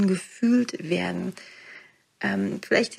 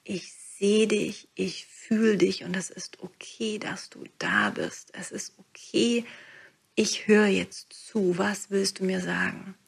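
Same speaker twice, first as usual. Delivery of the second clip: gentle whisper to sadness. Shown as a demonstration. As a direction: breathe it out like comforting a child. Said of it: "wenn du einfach mal sagst".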